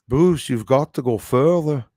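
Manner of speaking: loud put-on Scottish accent; imitating a Scottish troll insisting in his accent. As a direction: push it like the Scottish troll did. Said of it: "I started picking up his accent".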